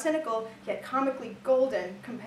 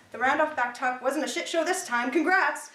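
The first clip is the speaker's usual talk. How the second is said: louder, higher mock congratulations; backhanded praise; 4 semitones higher, 6 dB louder than usual. Villain coach grudgingly praising a gymnast's back tuck, backhanded praise. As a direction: toss out grudging praise, loudly.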